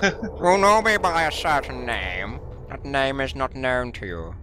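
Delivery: a menacing villain sped up on helium; Bane on helium. Acted. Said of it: "Why do you sound like Bane on Helium?".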